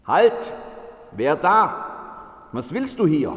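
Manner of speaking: lauter, strenger Anruf des Wächters; Wächterruf. Acted. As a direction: den Fremden am Tor barsch anhalten. Torwächter ruft den Ankömmling an. (Wächter ruft laut am Tor)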